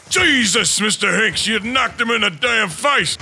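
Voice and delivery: startled exclamation. Real, not acted. Player reacting to partner's punch in a game, startled. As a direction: exclaim in shocked amazement.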